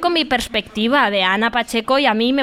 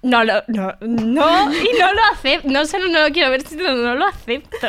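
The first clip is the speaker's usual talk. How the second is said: loud, much higher indignant refusal; outraged protest; 5 semitones higher, 3 dB louder than usual. Real, not acted. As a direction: shoot up in pitch, refusing outright. Refuses Scarlett represents her. (protesta indignada, más alta y fuerte)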